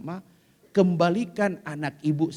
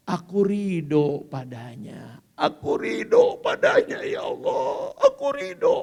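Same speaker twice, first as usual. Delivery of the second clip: pleading prayer; 4 dB louder than usual. Acted. Mother praying she accepts her son, pleading. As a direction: let the prayer climb and break.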